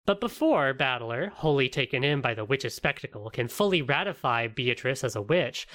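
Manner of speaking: read-aloud plot summary; recap narration. Acted. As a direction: narrate the story recap in measured, rounded phrases. Reads the episode recap.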